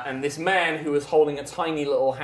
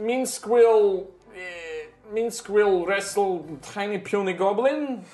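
barbarian; 4 semitones higher, slower than usual. Acted. Minsk speaks.

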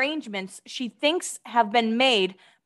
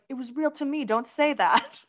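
TikTok sound quote; 3 semitones higher than usual. Retold or imitated. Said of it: "that TikTok sound where it's like".

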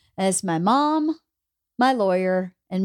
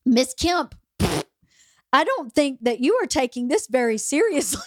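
retold stern judge; 4 semitones higher than usual. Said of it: "and he goes".

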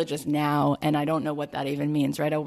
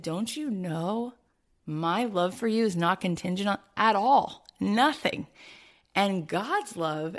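tender; slower than usual. Retold or imitated. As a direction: gently remind her she is loved. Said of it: "And you said".

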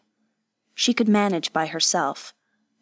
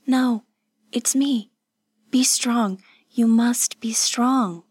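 higher, insistent encouragement; firm urging; 4 semitones higher, slower than usual. A narrator's reading. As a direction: urge a weak friend to hold on. Urging sick friend to hold on.

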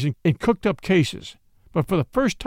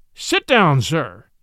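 thundered command; 5 dB louder, much slower than usual. A narrator's reading. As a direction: thunder it from the bench. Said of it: "thundered command".

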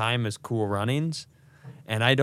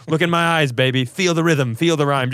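coach voice from a film; 4 semitones higher, 5 dB louder than usual. Retold or imitated. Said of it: "testing my baby".

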